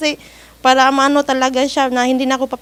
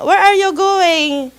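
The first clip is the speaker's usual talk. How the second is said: higher, slow mock employer; slow demanding employer; 4 semitones higher, 4 dB louder, much slower than usual. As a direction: drag out the question like a boss. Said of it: "sabi niya". (mabagal na tanong ng amo)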